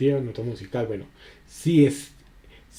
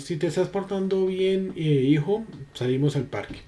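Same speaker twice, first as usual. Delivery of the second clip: put-on parent to child; 5 semitones higher than usual. Shown as a demonstration. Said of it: "Son dos diferentes acentos".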